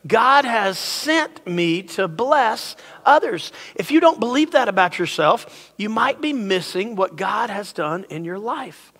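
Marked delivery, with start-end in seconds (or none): 0.1-3.5 very slow, measured declaration; leading recitation. Shown as a demonstration. Pastor having the crowd say it with him, slow and deliberate. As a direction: stretch it out so everyone can join. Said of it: "Say it with me".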